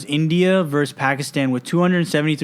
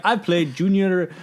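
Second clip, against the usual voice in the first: slow, slightly raised parent voice; imitated bragging parent; 5 semitones higher, slower than usual. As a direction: lightly mimic a parent recalling glory days. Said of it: "when your parents talk about school".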